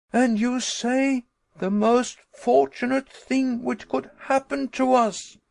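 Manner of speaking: high, loud, rushing outrage; exasperated tirade. Acted. Nephew railing at uncle about the eruption, high and exasperated. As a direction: pile up the horrors in fury. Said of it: "in the height of my exasperation".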